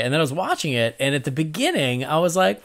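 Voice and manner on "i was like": laughing. Real, not acted. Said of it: "laugh cry".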